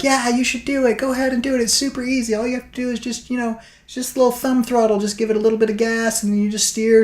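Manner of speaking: high, fast coaxing chorus, imitating; mock peer pressure. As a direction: egg her on, voice up high and quick. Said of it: "all three of us are like".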